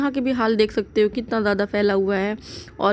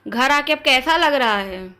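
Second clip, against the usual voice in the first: to someone hard of hearing; 3 semitones higher than usual. Real, not acted. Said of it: "बहुत तेज बोलना पड़ता है।".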